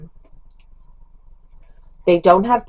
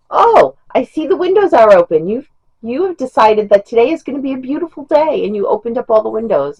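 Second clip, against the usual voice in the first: higher, sing-song mock surprise; teasing husband; 6 semitones higher than usual. Husband ribbing wife about the open windows, teasing. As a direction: imitate him teasing, pitched up.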